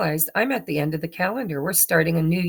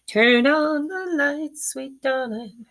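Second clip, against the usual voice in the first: sweet coo; 8 semitones higher, slower than usual. Real, not acted. Cooing to the light.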